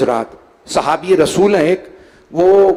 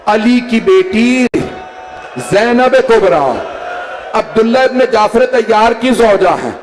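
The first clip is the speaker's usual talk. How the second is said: wailing lament; 5 semitones higher than usual. A narrator's reading. Wife tells why the daughter weeps, keening. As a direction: stretch each word in mourning. Wife answers in majlis recitation.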